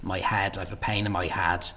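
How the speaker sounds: "head" opened towards "had". Shown as a demonstration. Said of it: "it almost sounds like an a".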